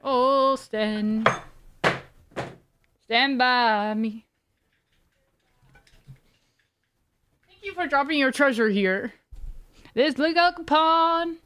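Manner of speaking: singing through a voice changer. Real, not acted. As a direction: karaoke with a voice filter. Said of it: "not the voice changer on this".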